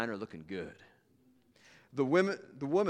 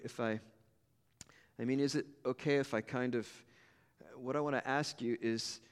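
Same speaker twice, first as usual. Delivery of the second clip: softer, halting, almost whispered plea; soft and hesitant; 4 dB quieter than usual. Acted. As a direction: ask shyly, barely daring. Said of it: "she slowly and softly said".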